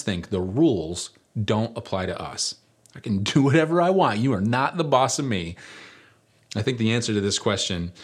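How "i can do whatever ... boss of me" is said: acted defiance. Voices a defiant rule-breaker's thought.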